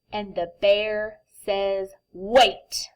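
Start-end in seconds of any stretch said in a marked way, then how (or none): 2.1-2.9 sharp whispered wait; urgent whisper. Acted. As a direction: stop them in a whisper. Bear interrupts in whisper.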